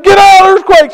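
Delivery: imitating a shouted warning; retold urgent warning. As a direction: call everyone out urgently. Someone yells warning in earthquake.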